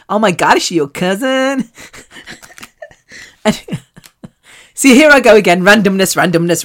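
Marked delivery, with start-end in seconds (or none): 0.1-1.7 imitating amazed American friends, lifted questioning end; American accent. American friends asking about her cousin, imitated American accent. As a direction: gush in a put-on American accent. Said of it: "from her Hawaiian friends and American friends".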